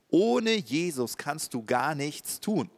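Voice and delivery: slow, weighty; "gar nichts" given weight; emphatic. Shown as a demonstration. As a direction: press each word home. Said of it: "Betonung auf nichts".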